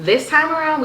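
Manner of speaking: high, loud emphatic contrast; excited. Real, not acted. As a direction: push it up high and bright. Contrast with first trip.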